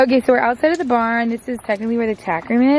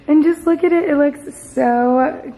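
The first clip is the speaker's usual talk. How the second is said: excited; 4 semitones higher, 4 dB louder, slower than usual. Real, not acted. Gushing over the arch.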